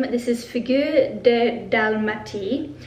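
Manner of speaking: awkward attempt at a French accent. Shown as a demonstration. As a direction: try the perfume name with a French accent. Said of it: "Excuse my very awful French accent attempts".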